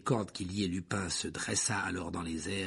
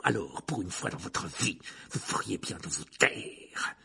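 stern, icy teacher. Acted. Teacher threatens pupils with expulsion, stern. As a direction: stretch the name, then lecture with contempt. Voices Rogue scolding Hermione.

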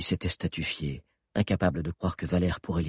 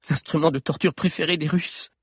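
historian voice; 10 semitones higher than usual. Acted. Historian explains.

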